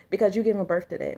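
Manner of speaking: quick hushed whisper, fast; sudden whisper. Real, not acted. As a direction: lean in and whisper it like a warning. Aside warning viewers off sadness.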